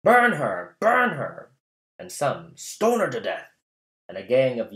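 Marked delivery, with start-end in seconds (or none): 0.0-1.5 high, loud mob yell; angry townsfolk shouting for the widow's burning; crowd shouting. Acted. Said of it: "Some shouted". 2.6-3.5 a raised mob cry; angry townsfolk demanding she be stoned; crowd shouting. Acted. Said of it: "Some shouted".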